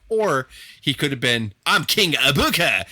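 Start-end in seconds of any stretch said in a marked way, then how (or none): 1.7-2.8 hammed-up British accent, slow and drawn out; mock British King Booker, stretched-out words; imitating British accent. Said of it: "he had a British accent".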